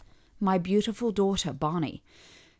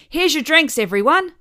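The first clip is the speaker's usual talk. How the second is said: waitress; 8 semitones higher, 7 dB louder than usual. A narrator's reading. Waitress announcing drinks.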